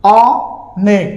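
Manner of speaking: অনেক split slowly, open "aw", then "nek"; natural pronunciation. Shown as a demonstration. Teacher sounding out অনেক for students, very slowly, syllable by syllable. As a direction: draw out the open first vowel of অনেক, pause, then "nek". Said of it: "স্বাভাবিকভাবে উচ্চারণ করতে গেলে".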